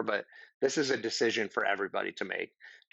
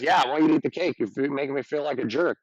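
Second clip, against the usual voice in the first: defiant uncle; 2 semitones higher, 5 dB louder, faster than usual. Retold or imitated. Uncle doubling down on the cake, mildly angry. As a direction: dig in and push back hard. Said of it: "if he says".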